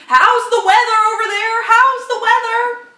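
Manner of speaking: "weather" belted high and loud, slow; stress on weather. Shown as a demonstration. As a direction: hit "How's the weather" loud and high, slowly. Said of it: "Emphasis again on weather".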